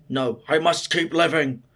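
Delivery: mildly defiant, pushed out firmly; acted defiance. Fighter struggling against his own head, acted defiance. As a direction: refuse to give in, as a retold quote. Fighter resisting death, retold.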